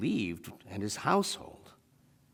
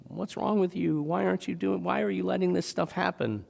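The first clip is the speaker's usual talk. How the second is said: mock yelling; 8 semitones higher than usual. Begging believer yelling at God, mock yell. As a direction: challenge God in a raised, complaining pitch. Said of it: "or maybe yelling at God".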